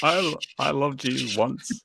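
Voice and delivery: slow, melodramatic farewell; tenderly, like a goodbye; mock tender farewell.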